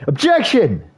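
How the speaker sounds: high, loud, punchy objection; pretend courtroom objection. Gamer imagining suing his friend, shouting objection. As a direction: slam the word down like a lawyer. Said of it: "and then I can just go".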